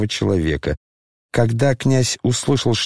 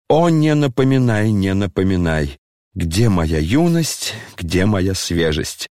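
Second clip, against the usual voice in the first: mournful lament; 4 semitones lower than usual. Acted. Генерал патетически вздыхает о юности.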